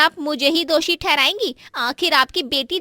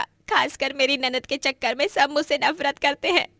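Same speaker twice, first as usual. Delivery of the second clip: crying. Acted. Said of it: "फूट फूट कर रोने लगती है".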